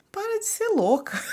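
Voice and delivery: high, laughing mock scolding; laughing imitation of a critical onlooker. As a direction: mimic judgy people while laughing. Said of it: "as pessoas vão te olhar e falar".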